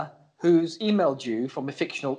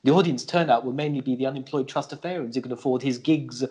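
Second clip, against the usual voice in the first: scripted read; 4 semitones lower than usual. Acted. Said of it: "how I read that scripted piece".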